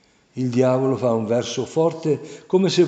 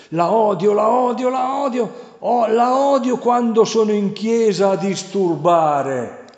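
high, loud frantic shrieking; agitated demon; 9 semitones higher, 5 dB louder than usual. A narrator's reading. Devil ranting his hatred, frantic and shrieking high. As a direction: rant like a frenzied devil. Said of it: "Prosegue concitato".

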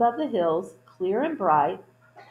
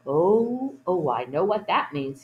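groundhog speaking; 3 dB louder than usual. Acted. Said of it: "he said".

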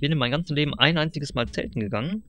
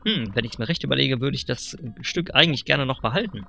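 lightly voiced pushy dealer, rising on the pitch; sly salesman. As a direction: sell it like a slick huckster. (leicht gespielter, schmieriger Händler)

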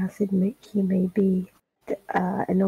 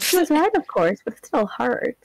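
bittersweet villain line, raised pitch, louder; Azula voice; 4 semitones higher, 3 dB louder than usual. Retold or imitated. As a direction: play a wounded, smiling villain. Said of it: "like that one Avatar ... scene with Azula".

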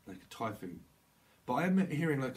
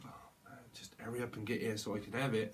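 whispered impatience; 5 dB quieter than usual. Pretend. Impatient channeled voice.

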